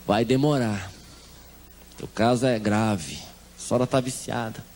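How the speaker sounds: a low, slow, hushed hint of a solemn religious leader; grave warning. Leader tells the mother her case is grave, low and slow. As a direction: intone it gravely and slowly, lightly voiced.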